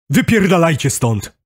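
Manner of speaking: high, angry order to leave; furious. A narrator's reading. Narrator at the open car window, furious. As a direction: send them off furiously, voice jumping up. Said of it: "wysyczałem wściekle".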